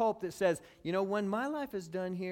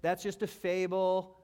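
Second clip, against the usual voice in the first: mocking scoff; 3 semitones higher, 5 dB louder, slower than usual. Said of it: "people mock and they scoff".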